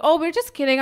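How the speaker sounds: mock-innocent backpedal; placating apology. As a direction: laugh it off apologetically, voice lifted. Retold apology to the angry guy.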